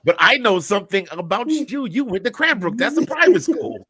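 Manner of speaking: laughing, voice climbing high; teasing roast, breaking into laughs. Real, not acted. Playful roast comeback, rising laughter.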